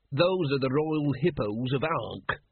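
slow, proud, put-on flag-bearer voice; proudly. Flag bearer boasts to the watchmen, slow and proud. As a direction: puff up with civic pride. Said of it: "said the man proudly".

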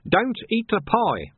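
high, slow, urgent warning; panicked plea. Acted. Panicked pieman warning the sergeant off, high and slow. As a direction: stop him before he bites. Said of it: "he shouted".

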